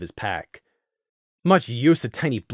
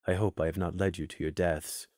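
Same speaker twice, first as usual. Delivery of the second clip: a touch grave; 7 semitones lower, 12 dB quieter than usual. A narrator's reading. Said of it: "Fallen Leaf offered".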